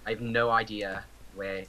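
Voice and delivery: amateur posh-leaning British accent; tentative put-on British accent; attempted British accent. Shown as a demonstration. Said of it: "how I sound when I try to do a British accent".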